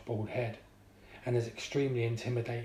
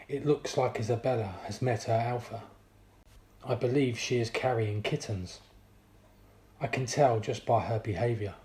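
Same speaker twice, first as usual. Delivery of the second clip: soft lisp voice. Acted. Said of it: "his soft, lisp voice".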